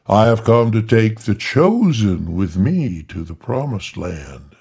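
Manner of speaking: loud, slow, grand voice from inside; booming angel voice. Acted. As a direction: boom it like a heavenly being. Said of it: "the speaker playing Gabriel".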